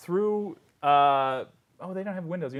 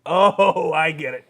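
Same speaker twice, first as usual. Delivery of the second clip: loud drawn-out "oh" of realisation; the god catching on, lightly voiced; dawning understanding; 7 dB louder, slower than usual. GM as the god answering a worshipper, catching on. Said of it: "he says".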